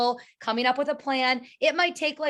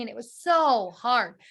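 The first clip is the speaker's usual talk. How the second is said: whiny complaint; slower than usual. Retold or imitated. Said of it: "She always kept saying".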